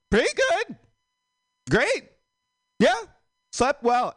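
very high, bright fake-cheerful voice; fake chipper reply. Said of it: "each day I reply with".

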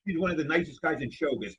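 talking through a mouthful of cashews; chewing while talking; mouth full. Real, not acted. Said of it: "Excuse me, I'm talking with my mouth full".

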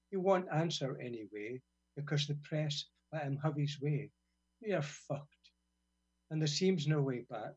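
measured, deliberate poetry recital; poem reading. Acted. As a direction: read it as a spoken-word poem. Reads own poem aloud.

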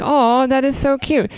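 high, doting coo; mom cooing. Retold or imitated. Mom cooing at her little daughter's cute mistake. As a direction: gush over a toddler's word. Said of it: "my mom was like".

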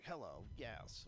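slow, stiff "Hello, yes." like a lightly voiced nerd. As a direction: drag out "Hello, yes." as a mild mock nerd. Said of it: "how a nerd says it".

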